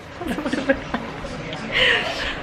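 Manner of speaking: high amused giggle; real laugh. Real, not acted. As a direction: giggle at the mishap. Teasing about stress.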